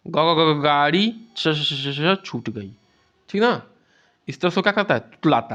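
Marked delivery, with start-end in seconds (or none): 0.1-2.7 stuttered repetition. Shown as a demonstration. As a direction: repeat the first sound again and again before the word. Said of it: "कह-, कहेगा".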